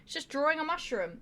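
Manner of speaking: high, airy voice of calm admiration; mock dreamy visitor. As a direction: lightly play a serene art lover. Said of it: "people come in and they're like".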